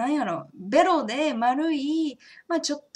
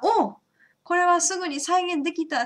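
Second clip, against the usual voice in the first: excited; 6 semitones higher, 4 dB louder than usual. Pretend. Imagined viewer succeeding at once.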